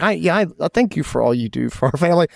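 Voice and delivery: a sincere, quick thank-you to his wife; mean every word of the thanks; heartfelt gratitude, lightly retold; genuine thanks. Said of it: "And it was genuine".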